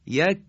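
"یک" with a crisp k further forward; careful demo of k in "یک"; fronted kaf. Shown as a demonstration. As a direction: close "یک" on a k just ahead of the uvula. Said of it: "حالا دقت کنیم به تلفظ این حروف".

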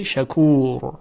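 شکور with long ū and heavy final R. Shown as a demonstration. Teacher showing tafkhim after long ū, heavy R in شکور. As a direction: hold the ū of شکور, then a thick R.

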